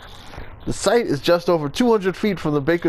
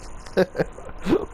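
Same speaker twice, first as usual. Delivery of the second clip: breathy laugh at himself; 4 semitones higher, 5 dB quieter than usual. Real, not acted. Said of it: "My accent's terrible".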